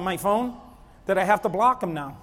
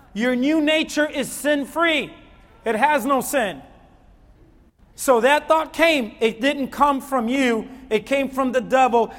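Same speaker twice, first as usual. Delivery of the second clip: loud, raised preacher's voice driving each point home; fiery preaching; 4 semitones higher, 5 dB louder than usual. Acted. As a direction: preach it hard to the young man. Preaching at full force.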